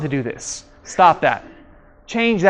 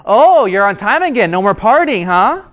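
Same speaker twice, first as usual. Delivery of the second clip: mock-sarcastic jab. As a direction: toss out a sarcastic little dig. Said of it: "they say a lot of sarcastic remarks".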